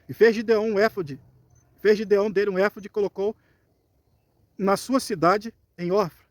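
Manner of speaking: measured reading aloud of a Bible passage; projected scripture reading voice. Acted. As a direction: read the verse out to a congregation.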